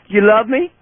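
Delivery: pet talk. Real, not acted. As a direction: ask the dog sweetly. Asks dog repeatedly, pitch climbs.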